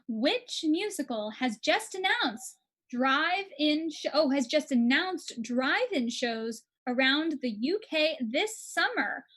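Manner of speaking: slow, deliberate quiz host; measured question-master delivery; quiz question read-out. Acted. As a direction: announce the question slowly to the players.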